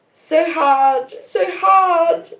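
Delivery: high, loud moaning cry; a high moaning lament. A narrator's reading. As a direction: wail it in grief. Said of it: "moaned Miss Havisham with her former action".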